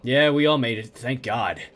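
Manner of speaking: low, hollow survivor voice; traumatized survivor. Acted. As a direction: speak like a man still in shock. Survivor recounts attack.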